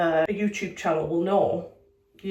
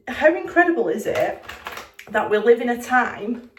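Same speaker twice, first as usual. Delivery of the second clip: excited; 3 semitones higher, 4 dB louder than usual. Real, not acted. Enthusiastic rhetorical question.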